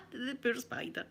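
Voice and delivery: soft whisper of pity. Real, not acted. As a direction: breathe it out in a whisper. Pitying aside after the story.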